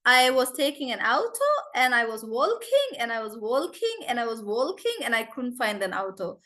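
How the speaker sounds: put-on playful Russian-accented excuse, sing-song rises. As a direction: put on a light Russian accent, with "walking" as "wol-king". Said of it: "I had a Russian friend".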